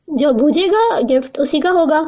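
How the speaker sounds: plain reading voice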